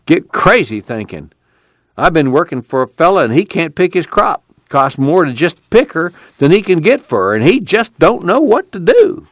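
Black Hat, exasperated. A narrator's reading. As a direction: let it climb with frustration.

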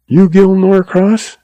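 slow, weak, feverish question. A narrator's reading. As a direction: ask it weakly, feverish. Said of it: "he asked weakly".

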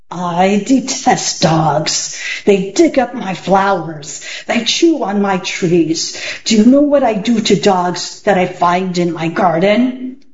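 a light growl, slow and menacing; growling magician. Acted. Magician threatening Alan about dogs, light growl. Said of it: "a voice that was more like a growl".

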